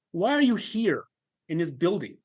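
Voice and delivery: high needling question; sarcastic inner voice. Retold or imitated. Inner voice interrogating the worker, sarcastic. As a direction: start high and probe mockingly. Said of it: "this incredibly sarcastic voice in my head".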